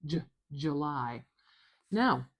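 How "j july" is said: teacher sounding out "July" from its first sound; isolated J sound, then July. Shown as a demonstration. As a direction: say "J" alone, then "July" with a weak first vowel. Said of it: "for the sound in J".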